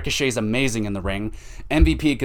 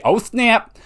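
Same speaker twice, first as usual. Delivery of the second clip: high excited "oh snap"; playful jolt of surprise; surprised; 12 semitones higher, 4 dB louder than usual. Real, not acted. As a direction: gasp it out, impressed. Reacting to a shoot comment.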